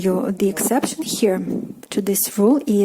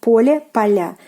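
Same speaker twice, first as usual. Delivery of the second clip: Поле with stress on the first syllable, поля with stress on the last; stress contrast; 4 dB louder than usual. Shown as a demonstration. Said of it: "The stress falls on the last syllable here".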